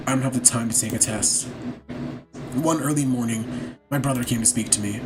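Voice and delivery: low, hushed story reading; quiet somber narration. Acted. Narrator recalling his brother's death, quiet somber reading. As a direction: tell the sad tale softly, holding back grief.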